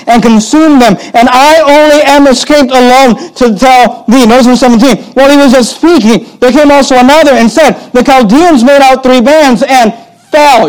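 high, full-voiced pulpit reading; forceful scripture preaching. Real, not acted. Pastor reading Job's disasters to the congregation, forceful preaching. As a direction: read the verses out with rising urgency, leaning on FELL.

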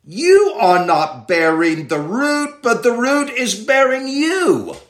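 "you" said slowly and leaned on at the start; stress on YOU. Shown as a demonstration. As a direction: hit the first "you" hard, slow and deliberate. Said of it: "the you is emphatic".

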